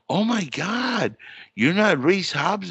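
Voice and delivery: high, slow amazed question; shocked. Retold or imitated. Woman realizing her mistake, high and slow in shock. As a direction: stretch out her disbelief. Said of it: "She's like".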